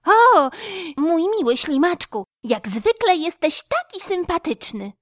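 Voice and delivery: high, bright chirping squirrel; chirpy squirrel. A narrator's reading. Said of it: "wyszczebiotała ruda kita".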